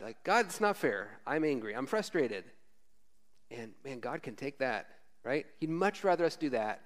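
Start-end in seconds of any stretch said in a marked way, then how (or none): 0.2-2.4 mock angry prayer. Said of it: "imprecatory prayers to God".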